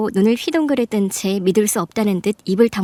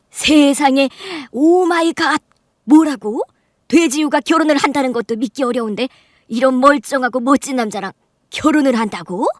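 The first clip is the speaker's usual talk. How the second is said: mock astonishment; 4 semitones higher than usual. Snobbish aunt mocks the bride.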